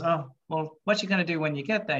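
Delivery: lightly put-on Irish accent. Retelling Drew's Irishman joke, mild Irish accent. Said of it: "he does the accents as well".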